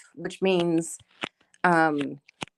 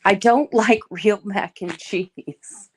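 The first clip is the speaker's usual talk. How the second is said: slow, louder, laughing through the words; laughing confession; 5 dB louder, much slower than usual. Real, not acted. Streamer confesses her mac and cheese taste, laughing slowly. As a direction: admit it while laughing, drawn out.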